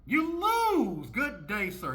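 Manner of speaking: high, loud mock announcer; booming mock verdict to the loser. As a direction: declare it like a game show host. Mock game-show verdict.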